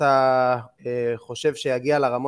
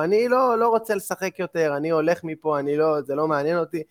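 retold childish tantrum; 3 semitones higher than usual. Upset boy tells his mother he is quitting at halftime, mock protest. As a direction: imitate an upset kid refusing to play on. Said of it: "היה משתגע".

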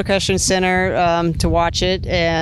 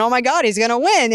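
excited; 5 semitones higher than usual. Retold or imitated. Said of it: "I'm going".

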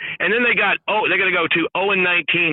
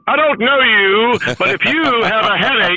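Woody Durham impression; 3 semitones higher than usual. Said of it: "You do the best impressions".

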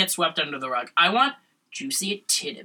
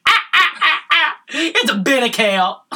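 high, loud, slow enthusiastic vendor; overenthusiastic man; 9 semitones higher, 6 dB louder than usual. Retold or imitated. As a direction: ham up the eager seller.

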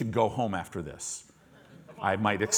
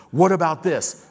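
God demanding; 5 semitones higher, 7 dB louder than usual. Retold or imitated. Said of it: "God starts talking to him".

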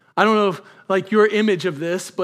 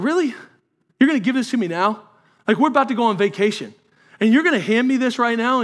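high, quick, exasperated questions; frustrated husband; 4 semitones higher, 3 dB louder than usual. Retold or imitated. Husband to wife about the test before vacation, exasperated. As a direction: sound put out and a little incredulous.

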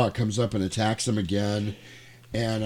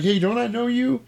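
tow truck driver; 12 semitones higher than usual. Retold or imitated. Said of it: "He's like".

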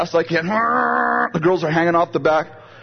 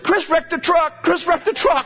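tattling cousins; 12 semitones higher than usual. Retold or imitated. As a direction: chant it like gleeful kids telling on him. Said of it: "They're like".

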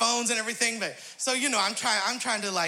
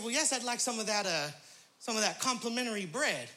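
polite request; 2 semitones lower, 8 dB quieter than usual. Retold or imitated. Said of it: "I said".

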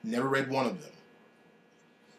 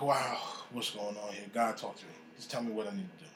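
softer, hushed plea; soft prayer; 2 semitones lower, 8 dB quieter than usual. Retold or imitated. Asking God what to do, quiet and pleading. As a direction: pray it quietly, asking for guidance.

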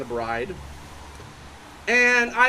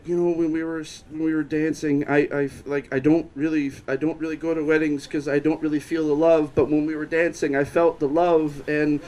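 lower, rambling imitation of a drunk; incoherent drunk; 4 semitones lower than usual. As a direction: stumble through it, restarting like an incoherent drunk. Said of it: "very incoherent and said".

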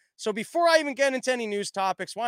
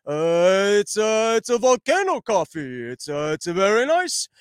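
Yogi Bear voice. Retold or imitated. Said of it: "like, a Yogi Bear voice".

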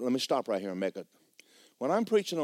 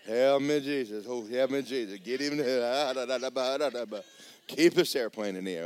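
mock panicked prayer. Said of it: "she learned how to pray".

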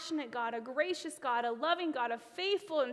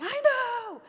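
loud, high, fed-up "I know"; exasperated yell of agreement; exasperated shout; 11 semitones higher, 12 dB louder than usual. Retold or imitated. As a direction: blurt it out, totally fed up. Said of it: "And I'm like".

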